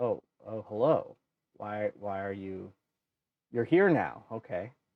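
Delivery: very awkward delivery. Voicing figures who stare as the group walks in, very awkward. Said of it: "like very awkwardly".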